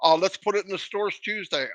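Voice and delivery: a quiet, smug, throwaway mock of easy success; lightly mocking carefree boss voice. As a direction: toss it off like it was nothing, mocking. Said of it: "clicked the button and said".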